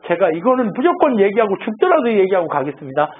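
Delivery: mildly worked-up, insistent protest; retold fuming. Elihu insisting he must speak to Job, mildly fuming. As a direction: press on as if boiling inside, retold. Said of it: "엘리후가 열받아가지고".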